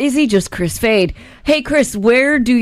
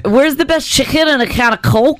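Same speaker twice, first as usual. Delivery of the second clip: put-on trying a Scouse accent; 4 semitones higher than usual. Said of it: "Why don't you guys try it?".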